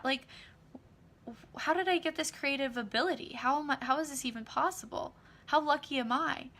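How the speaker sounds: high, delighted disbelief; stunned delight. Retold or imitated. Acted amazement at money.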